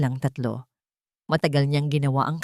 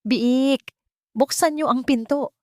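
wolf calling; 9 semitones higher, 3 dB louder, slower than usual. Acted. Wolf at the stone house.

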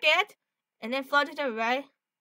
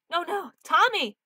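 drawn-out cry, pitched up; mock alarm; 4 semitones higher than usual. Crying out to Tommy in trouble, mock alarm. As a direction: call out in protest, stretching it.

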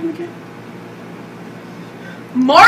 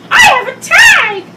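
higher, louder play voice; changed character voice; 9 semitones higher, 5 dB louder than usual. Pretend. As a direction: pop up in a new toy's voice. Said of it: "Your voice just changed?".

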